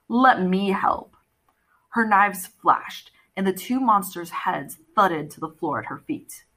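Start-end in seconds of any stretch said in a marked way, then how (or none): 0.1-1.2 slow feline purr. Acted. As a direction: purr the offer slowly. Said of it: "the Catwoman purred".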